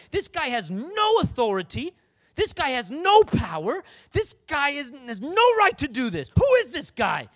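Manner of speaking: emphatic rant, punching each NO; building righteous indignation, key words hit hard; indignant tirade. Acted. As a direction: declare it like an offended challenger. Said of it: "we all talk like that".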